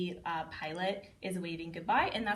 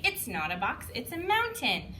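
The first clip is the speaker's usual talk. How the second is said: delighted reveal; 4 semitones higher than usual. Shown as a demonstration. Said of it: "we say".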